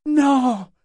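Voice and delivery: high, forceful drawn-out refusal; booming cry pitched high; thunderous. A narrator's reading. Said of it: "d'une voix tonitruante".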